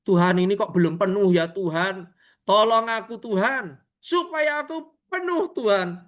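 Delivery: re-enacted daily plea to God; acted prayer rising into an insistent plea; pleading prayer. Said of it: "Saya setiap hari".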